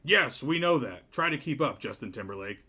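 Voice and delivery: a tiny piping voice for a big man, dragging the name out; mismatched mayor voice. Acted. Mayor greeting Cliff, in a squeaky, booming voice. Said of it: "voice does not match his stature".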